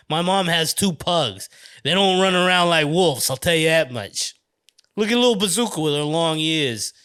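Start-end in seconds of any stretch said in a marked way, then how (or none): 1.8-6.9 slipping into an East Coast accent; casual East Coast accent. Real, not acted. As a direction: let some East Coast accent creep in. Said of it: "slipping into my East Coast accent".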